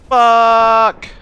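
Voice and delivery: loud high frustrated shout; angry yell. Real, not acted. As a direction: bark the curse out. Killed in game.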